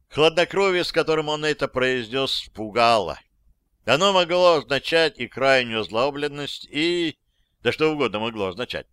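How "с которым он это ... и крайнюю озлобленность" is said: plain reading voice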